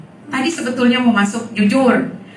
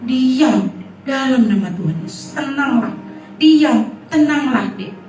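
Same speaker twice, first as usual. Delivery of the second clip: silent prayer; 3 semitones higher than usual. Retold or imitated. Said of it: "tapi di hati".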